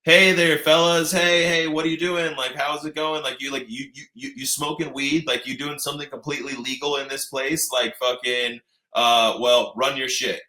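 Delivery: mocking the friendly cops. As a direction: play the cop's fake-friendly come-on. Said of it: "be like".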